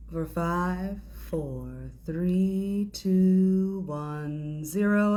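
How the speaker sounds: counting down on a held breath; holding breath. Real, not acted. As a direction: count with the lungs full. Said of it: "Hold it at the top".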